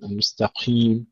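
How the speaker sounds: المستقيم with breath leaking after ق; whispered qaf. Shown as a demonstration. Teacher showing others' mistake, breathy qaf in المستقيم. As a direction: let air escape on the qaf of المستقيم. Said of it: "يهمسونها".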